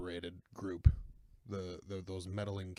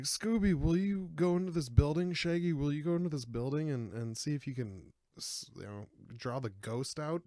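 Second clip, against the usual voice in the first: gang coaxing Scooby; 5 semitones higher, 3 dB louder than usual. Retold or imitated. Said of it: "They're like".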